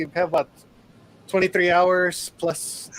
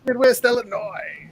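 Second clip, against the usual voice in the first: higher, slow imitation of the shout; drawn-out, toned-down announcer call; half-hearted echo; 5 semitones higher than usual. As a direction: echo the holler without the volume. Repeats the shout less forcefully.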